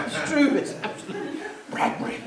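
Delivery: laughing through the words; chuckling as he insists. Real, not acted. Laughs at own story.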